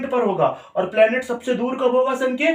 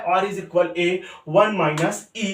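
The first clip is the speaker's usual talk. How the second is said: slow dictation; much slower than usual. Shown as a demonstration. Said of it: "teacher repeats the formula".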